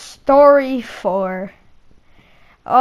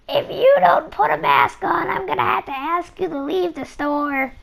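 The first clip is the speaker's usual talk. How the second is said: high, prim warning voice; lightly voiced stern shop lady; stern shopkeeper; 6 semitones higher than usual. Shopkeeper warning the kid to wear a mask, prim higher voice.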